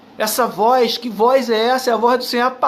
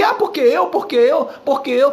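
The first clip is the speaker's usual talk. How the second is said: lightly imitated bragging, pitched up at the start; mock boasting; 3 semitones higher than usual. Preacher imitating people who glory in themselves, mock boasting. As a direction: mimic a braggart repeating himself. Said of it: "Tem gente se vangloriando aí".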